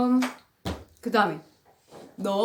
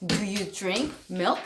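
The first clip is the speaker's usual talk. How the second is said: slow drill; 3 semitones lower, 4 dB quieter, much slower than usual. Shown as a demonstration. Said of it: "너 우유 마시니?".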